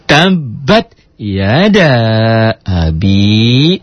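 "Tabat yada abi" slow and chanted; slow recitation. Shown as a demonstration. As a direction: draw it out melodically. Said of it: "model verse".

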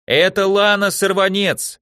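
high, loud chant answer; loud shouted cheer. Acted. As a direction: shout it back as one. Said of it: "также громко в один голос поддерживали".

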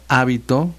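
"hábito" stressed on the first syllable, HÁ-bi-to. Shown as a demonstration. Host teaching accent rules, "hábito" stressed on HÁ. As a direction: punch the HÁ of "hábito". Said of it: "con acento en la A".

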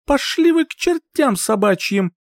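high, furious hissing heroine; hissed curse. Acted. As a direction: spit the curse out in rage. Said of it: "прошипеть".

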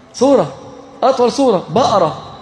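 playful high-pitched teasing; teasing exclamation. Acted. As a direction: poke fun at them, voice up. Mock exasperated teasing the audience.

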